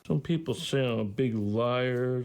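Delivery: whiny mimic, pitch shooting way up; mocking Stephen. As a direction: parody the guru's complaint. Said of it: "No, I don't".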